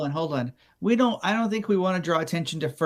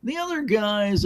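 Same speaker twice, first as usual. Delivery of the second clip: higher demo read; 5 semitones higher than usual. Shown as a demonstration. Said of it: "We just wanna say".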